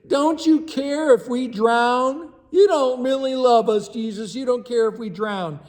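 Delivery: mock-dramatic grumbling at Jesus; exaggerated complaint. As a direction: play the disciples overdoing their panic. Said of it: "comes the exaggerations and the hyperbole".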